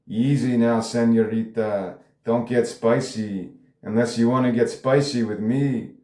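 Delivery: slightly hammed-up fake Mexican accent; bad Mexican accent. Cartel member warns the panelist, poor Mexican accent. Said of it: "he's got a really bad Mexican accent".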